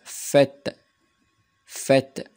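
"Fête" with a thick, open ê; thick circumflex ê. Shown as a demonstration. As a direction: say "Fête" with a broad, open vowel for learners. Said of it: "لا برونونسياسيون ديال أكسون سيركونفلكس كتكون غليظة". ("Fête" بـ ê غليظة ومحلولة)

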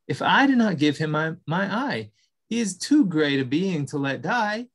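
light, eager little creature; small mouse voice. Acted. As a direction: speak up like a timid mouse. Mouse resolves.

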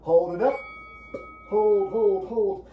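high, loud calls to hold; loud coaching call. Real, not acted. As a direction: push the class to hold it.

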